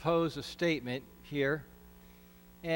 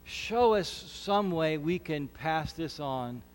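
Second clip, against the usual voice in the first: prayer. Acted. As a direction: pray it humbly, unhurried. Leads a prayer.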